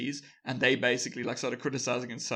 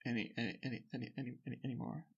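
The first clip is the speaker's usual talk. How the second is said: mock backing down; 12 dB quieter, much faster than usual. Company backing down, repeating itself sheepishly.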